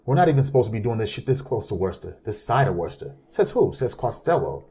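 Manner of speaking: lightly voiced Boston accent. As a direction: quote the gangster with a Boston twang. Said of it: "You do a good Boston accent".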